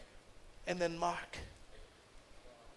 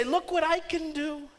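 put-on bright, eager child voice, a bit higher; eager kids showing off; 4 semitones higher, 4 dB louder than usual. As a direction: show off like an excited kid. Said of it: "they would love to say".

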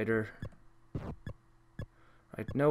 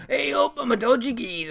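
mock Burke voice; 9 semitones higher than usual. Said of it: "two really horrible attempts to speak English".

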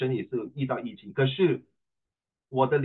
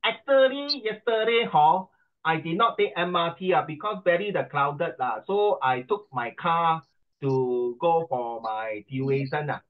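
poor exam answer; 2 semitones higher than usual. Shown as a demonstration. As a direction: act out a failing oral candidate. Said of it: "你觉得我会pass吗".

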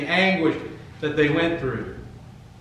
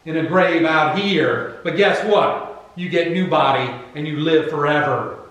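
emphatic, punched-out preaching; forceful preaching; 3 semitones higher, 6 dB louder than usual. Acted. Preacher voicing Jesus's promise to believers, forceful preaching. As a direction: drive each phrase home with weight.

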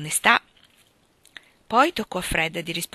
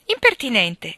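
sharp indignant cry of impertinent, louder and higher; exclaimed; 6 semitones higher, 7 dB louder than usual. A narrator's reading. Sally rebuffs a teasing question, exclaiming. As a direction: fling the word back, offended. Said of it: "esclamò Sally".

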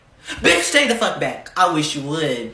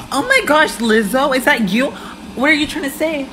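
high, urgent questioning; alarmed calling; 6 semitones higher than usual. Acted. Calling to a singer in a flood skit, high alarmed questions. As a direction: call out in mock alarm, pitched up.

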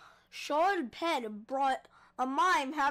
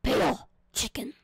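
Hanzo voice; 5 dB louder than usual. Acted. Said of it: "Did I just turn into Hanzo".

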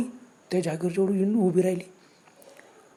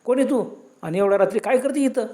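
calling out; 2 semitones higher than usual. Acted. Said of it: "त्यांनी आरोळी मारली".

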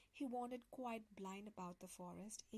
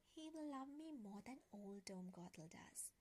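soft whispered inner thought, much softer; 2 semitones lower, 7 dB quieter than usual. Acted. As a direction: breathe it like a secret to herself. Rapunzel's secret thought.

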